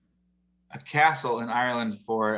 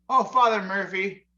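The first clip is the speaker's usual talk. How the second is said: grieving widow; 7 semitones higher, 4 dB louder than usual. Retold or imitated.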